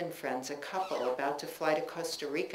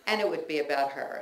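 fast, laughing through the words; 5 dB louder, faster than usual. Real, not acted. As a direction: chuckle it out quickly, a bit louder. Laughing take of repeated phrase.

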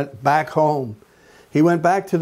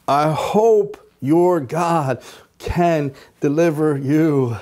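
slow and unsure, hoping more than believing; doubtful; slower than usual. Retold or imitated. King doubtfully assuring Daniel, slow hesitant tone. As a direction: let the doubt show in "hope". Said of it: "I think he said it like this".

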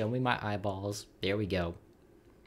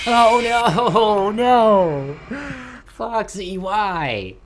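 high shrieking panic; panicked scream; 12 semitones higher, 13 dB louder, much slower than usual. Real, not acted. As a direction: scream in real fright. Jumpscared by Foxy.

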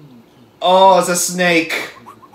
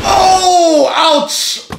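high, drawn-out cry of sympathy; wincing reaction; 10 semitones higher, 4 dB louder than usual. Real, not acted. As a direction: wince aloud, pitched well up. Winces at the hit on screen.

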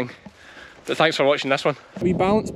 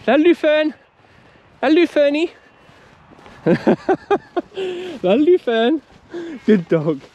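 English accent attempt; 12 semitones higher, 3 dB louder, much slower than usual. Shown as a demonstration. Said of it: "Gotta work on my English accent".

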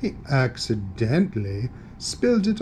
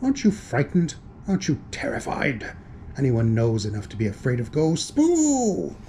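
spooky ghost voice. Acted. Ghost trying to scare.

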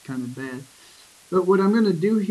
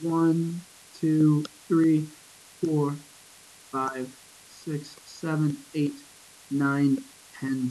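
slow count with pauses between numbers; slower than usual. Shown as a demonstration. Teacher tallies syllables in a line, slow and spaced. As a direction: count deliberately, one beat per syllable. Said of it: "And when I count".

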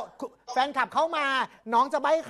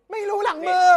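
excited guess; 7 semitones higher, 6 dB louder than usual. Real, not acted. Frantic guessing in charades game.

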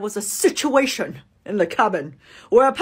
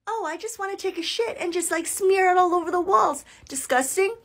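unbothered; 5 semitones higher than usual. Retold or imitated. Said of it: "we've seen it all".

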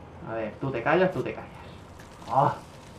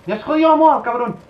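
much higher, much louder furious shout; furious yell; 9 semitones higher, 8 dB louder than usual. Real, not acted. Gamer screaming at the rival who ruined his killstreak, furious. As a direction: explode at the player who killed you. Rage after being killed.

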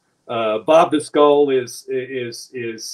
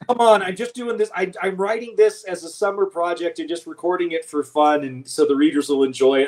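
higher-pitched retold protest, easing down; mock pleading; 4 semitones higher than usual. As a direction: plead your case, lightly hammed-up. Retells pleading with the producers.

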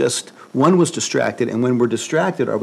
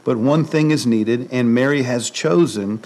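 scripture reading. Acted. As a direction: read it deliberately, letting each phrase land. Reads Luke scripture aloud.

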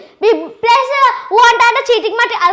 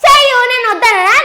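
slow, teary retort; tearful. Acted. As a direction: hold back tears while snapping back. Accused child near tears.

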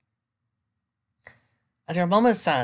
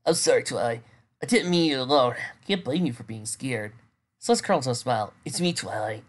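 gentle. Acted. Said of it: "the gentle voice of her lover".

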